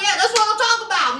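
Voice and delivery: fast, eager hype-man agreement; fast agreeing. Retold or imitated. Robert backing up his brother, fast and eager. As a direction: rattle it off fast, cheering him on. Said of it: "Robert giving his brother that".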